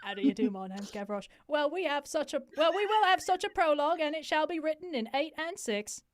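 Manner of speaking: hammed-up Cockney, rising high; fake Cockney accent. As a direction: play it in a bad Cockney accent. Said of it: "you get to be Cockney now".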